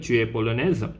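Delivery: "Tu es polonaise" asked by tune alone; question intonation. Shown as a demonstration. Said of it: "You are using the intonation form".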